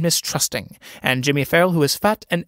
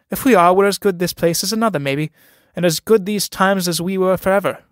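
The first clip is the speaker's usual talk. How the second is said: higher, indignant protest; a shocked young man objecting, pitched up; scandalized; 5 semitones higher than usual. Acted. Sean protests to Pegeen, scandalized and higher. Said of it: "Sean, scandalized".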